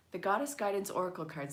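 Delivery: fast tongue-twister rattle; The Goddess Guidance Oracle card said fast like a tongue twister; rattled off. Shown as a demonstration. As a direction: race through the name. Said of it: "Say that ten times fast".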